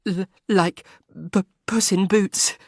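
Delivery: stammering through giggles, pitched high; gurgling laughter. A narrator's reading. Words broken by giggles. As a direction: Frederica laughing to Arthur about the Marquis, stammering giggles. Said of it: "A gurgle of laughter rose in her throat".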